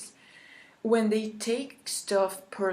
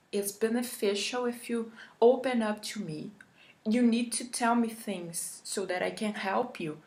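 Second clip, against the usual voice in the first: calm, reassuring; 4 semitones higher than usual. Shown as a demonstration. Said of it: "the correct way to say this would be like".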